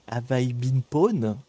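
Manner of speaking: slow English name in a French accent; self-mocking attempt at an English accent; accent anglais approximatif. Shown as a demonstration. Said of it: "avec mon superbe accent". (accent anglais maladroit, lentement)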